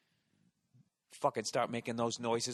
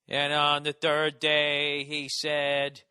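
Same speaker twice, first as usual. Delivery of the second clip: slow, solemn mass chant; priest intoning; 4 dB louder, much slower than usual. Retold or imitated. Altar boy recalling the priest at mass, slow solemn intoning. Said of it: "what prayers you're supposed to say".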